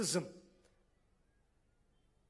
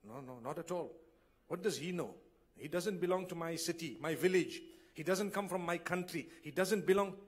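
dismissive relative refusing; 4 semitones lower, 4 dB quieter than usual. Retold or imitated. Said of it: "What do you say?".

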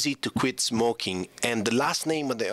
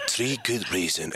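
lightly put-on low voice of mother; mother's letter voice; 4 semitones lower than usual. Son quoting mother's list, lightly voiced and low. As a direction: read it out as mother, pitched lower. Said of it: "she was doing the voice like this".

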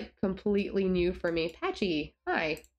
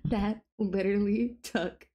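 excited; 2 semitones higher, slower than usual. Real, not acted. Finally got sim pregnant.

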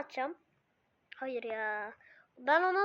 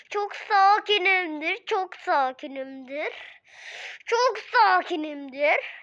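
sarcastic calm; 2 semitones higher, 3 dB louder, slower than usual. Acted. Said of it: "Bu benim sakin halim".

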